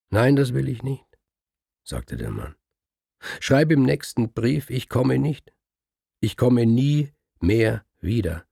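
flatly refuse, ich komme nie mehr wieder slowed; stubborn husband refusing. Acted. The man refusing the scribe's plea, firm.

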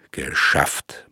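whispered under the breath; murmured. A narrator's reading. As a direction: breathe the word out in relief. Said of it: "murmelte er".

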